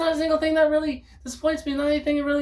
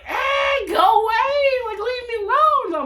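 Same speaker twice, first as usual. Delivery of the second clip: mock yell; 11 semitones higher, slower than usual. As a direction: yell at them to leave. Acted shouting at a stranger.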